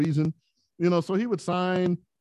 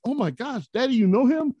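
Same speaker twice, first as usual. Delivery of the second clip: higher, voiced like excited young daughters; amazed kids; 8 semitones higher than usual. Daughters amazed their dad knows Fernando, excited squeal. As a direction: squeal it like a kid who just met a hero. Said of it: "They're like".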